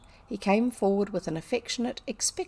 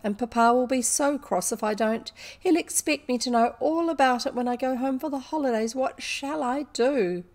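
worried complaint; 5 semitones higher, 3 dB louder than usual. A narrator's reading. Girl dreading her father's crossness.

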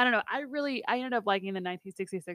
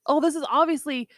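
mock deduction; 3 semitones higher, 6 dB louder than usual. Acts out Batman solving the riddles.

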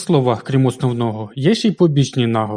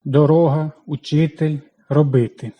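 дорога, учитель, робити with the second syllable held longer and stronger; наголос на другому складі; stress on the second syllable. Shown as a demonstration. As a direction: press the second syllable of each word. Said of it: "В інших — другий".

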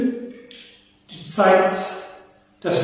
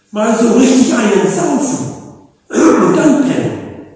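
boozy ox; 4 semitones higher than usual. Acted. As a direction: relish the idea of a booze-up. Ox proposes drinking, sleeping.

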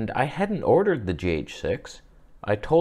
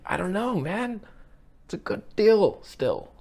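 high, put-on sheepish voice; mock sheepish friend; 9 semitones higher than usual. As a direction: play the friend shrugging it off, pitched up. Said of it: "he was like".

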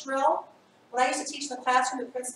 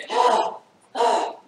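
frustrated exasperated groans; 7 dB louder than usual. Shown as a demonstration. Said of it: "So if we do a heavy sigh".

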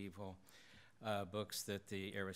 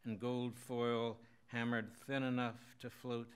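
measured, lifted poetry-reading voice; poem reading; 2 semitones higher than usual. Acted. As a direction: read the poem aloud in even, deliberate phrases. Reads own poem aloud.

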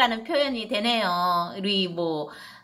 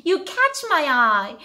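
put-on tender to baby; much slower than usual. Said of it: "아이 사랑스럽게 키우시고요".

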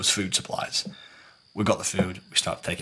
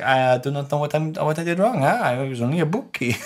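higher-pitched mock protest of innocence; indignant refusal; 6 semitones higher than usual. Crewmate refusing to apologise to the crew, mock-indignant protest. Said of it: "she was, like, refusing to apologise".

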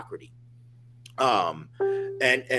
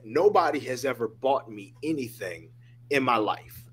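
a touch of tears, soft and understated; lightly voiced, choked-up big man; tearful biker quote; 3 semitones lower, 4 dB quieter than usual. Biker thanking him for a coffee, quietly moved. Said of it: "A tear came down his eye".

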